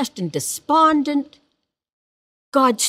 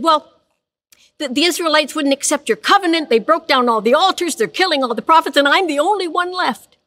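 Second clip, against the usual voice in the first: higher, fast self-pitying complaint; whining Elijah; 5 semitones higher than usual. Acted. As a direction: plead your case like the last one standing. Elijah complains to God, voiced.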